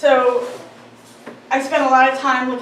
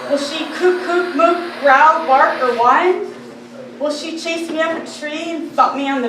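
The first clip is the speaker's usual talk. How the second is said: squirrel persona poem; 4 semitones higher, 4 dB louder than usual. Acted. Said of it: "in the voice of a squirrel".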